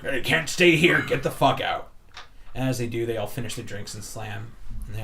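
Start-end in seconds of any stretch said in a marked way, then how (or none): 0.0-1.9 shout. Acted. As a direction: shove them out with your voice. Bouncer throwing patrons out.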